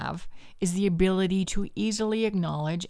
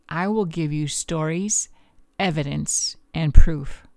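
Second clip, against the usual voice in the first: punchy, slightly louder host intro; podcast intro; 6 dB louder than usual. Acted. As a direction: kick off the show with emphatic delivery.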